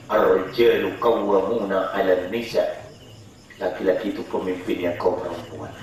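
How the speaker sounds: quoting scripture gravely; solemn warning. Real, not acted. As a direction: drop down and warn.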